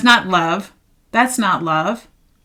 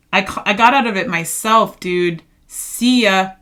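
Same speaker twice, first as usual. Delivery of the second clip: sassy goodbye. Pretend. Imagined dismissal of the ex.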